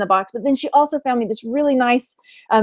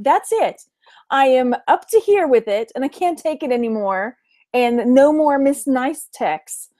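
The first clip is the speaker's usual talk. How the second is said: mock fed-up rant. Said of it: "where you're like".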